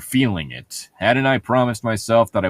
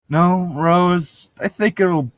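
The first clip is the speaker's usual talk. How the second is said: Alice reading voice; 6 semitones higher than usual. A narrator's reading. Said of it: "Alice said".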